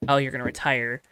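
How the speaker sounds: usual speaking voice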